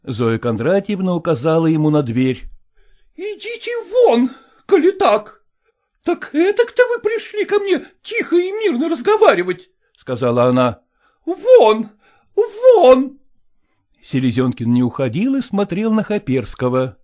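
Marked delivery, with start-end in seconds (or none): 2.8-9.7 high, scornful order with a bitter laugh; angry dismissal. A narrator's reading. Zoya pointing Selezenkin to the door, angry. 11.0-13.2 high, loud repeated order; shout. A narrator's reading. Zoya ordering Selezenkin out, shouting.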